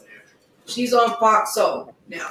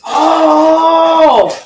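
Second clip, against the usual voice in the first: loud surprised oh; 6 semitones higher, 11 dB louder than usual. Real, not acted. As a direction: burst out in recognition. Surprised recognition of show.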